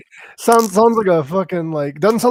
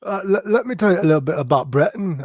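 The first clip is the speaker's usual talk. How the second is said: mock British accent; 2 semitones higher than usual. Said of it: "I kinda sound like".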